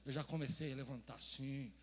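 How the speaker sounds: normal talking voice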